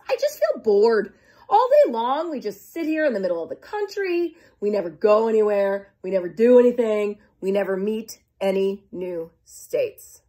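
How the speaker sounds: whiny, bored complaining; moaning Kansas. Acted. Kansas complaining to Nebraska, a touch whiny and bored. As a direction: whine about being stuck in the middle. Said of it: "moaned Kansas".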